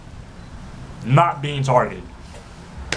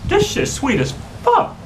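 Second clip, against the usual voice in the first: delighted surprise; 9 semitones higher than usual. Real, not acted. Tasting Kool-Aid on camera.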